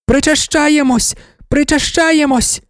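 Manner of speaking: high, slow ecstatic chant; women shouting. A narrator's reading. Worshippers chant the communion cry, high and drawn out. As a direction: chant it out as one fervent crowd. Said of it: "кричали жінки".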